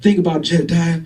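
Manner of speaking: persuading through laughter; mock persuasive boss. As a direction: sell the idea while cracking up. Boss pitching idea, laughing.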